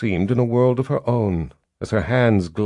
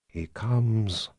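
hissing; 7 dB quieter than usual. A narrator's reading. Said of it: "Six hissed".

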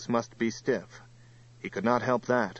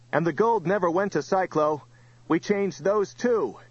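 raised voice, pitched high to carry; yelling; 8 semitones higher, 3 dB louder than usual. A narrator's reading. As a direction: yell it out to goad the enemy. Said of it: "yelled Johnny".

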